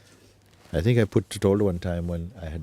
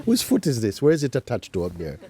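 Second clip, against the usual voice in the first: laughing; 5 semitones higher than usual. Real, not acted. Amused puzzlement retelling the dream.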